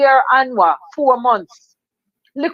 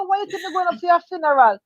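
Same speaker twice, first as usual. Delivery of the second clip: teary retort; 6 semitones higher, faster than usual. Retold or imitated. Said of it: "So me say".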